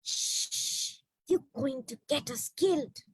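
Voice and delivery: soft, hissing hush; urgent hush. Acted. The girl hushing the bat in the tree, softly. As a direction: shush it so no one hears.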